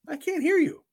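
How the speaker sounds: calling out. Real, not acted. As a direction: raise the voice over a dead mic. Audio check, calling out again.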